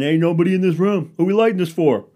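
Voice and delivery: loud, high-pitched indignant griping; mock fury. White guys griping about lights being on, mock furious. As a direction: holler it in comic outrage. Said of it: "imagine the fury that you feel".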